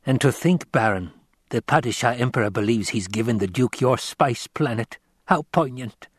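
lightly voiced sly courtier; a touch of silky mockery for the master; lightly lilting tenor schemer; Piter.

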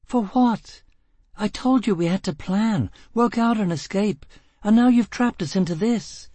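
furious tirade. A narrator's reading. Gisbella raging at Foyle.

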